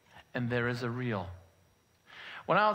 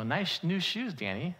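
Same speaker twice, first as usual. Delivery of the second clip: lightly mocking praise; mild sarcasm; 3 semitones higher than usual. Classmates eyeing his new shoes, mildly sarcastic. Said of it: "I sensed a little sarcasm".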